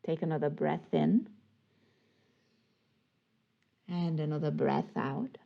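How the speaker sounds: calm, unhurried yoga guidance with long pauses; guided breathing. Real, not acted. Yoga teacher guiding attention to the breath, calm guided breathing. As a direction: ease them gently through each breath, leaving space.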